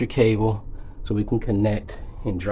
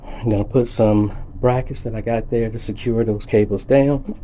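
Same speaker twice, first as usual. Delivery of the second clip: talking through the hiccups; speech broken by hiccups; 4 dB louder than usual. Real, not acted. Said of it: "got the hiccups".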